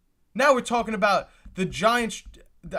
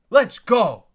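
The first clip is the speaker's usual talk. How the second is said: loud, higher, celebratory shout; excited cheer; 4 semitones higher, 9 dB louder than usual. Real, not acted. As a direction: let it burst out like your team just won. Celebrating the Cowboys' pick live.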